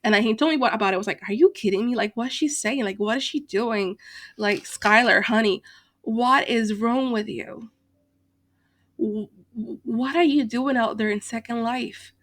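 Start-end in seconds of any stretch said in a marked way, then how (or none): 1.3-12.1 exasperated, disbelieving string of questions; retold telling-off, leaning on the questions; exasperated scolding. Vlogger scolding Skylar over her behaviour, exasperated.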